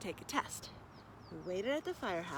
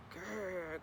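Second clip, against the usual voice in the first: dog growl; 4 semitones lower, 6 dB quieter than usual. Acted. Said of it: "growled Cavendish".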